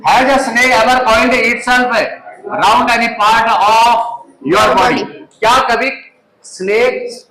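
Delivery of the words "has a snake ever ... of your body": slow, careful reading for a class; slow read-aloud. Shown as a demonstration. Teacher reads the lesson aloud to students, slow and careful. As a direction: model reading, word by word. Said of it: "इसमें narrator प्रश्न पूछ रहे हैं".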